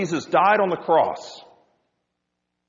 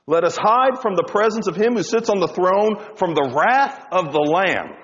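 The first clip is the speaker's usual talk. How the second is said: mock desperate plea; 4 semitones higher than usual. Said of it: "they go on to say".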